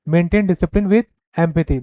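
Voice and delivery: very slow, each word spaced out; dictating a point; slow dictation. Shown as a demonstration. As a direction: read it slowly so students can write. Reading slide point aloud.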